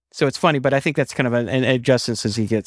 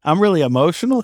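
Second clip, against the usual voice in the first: mock disbelief; 4 semitones higher than usual. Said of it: "I'm like".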